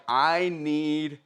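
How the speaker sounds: a hint of a desperate dad, slowing and dropping; pleading, slow and low at the end; father Jairus begging for Jesus. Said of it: "And he's like".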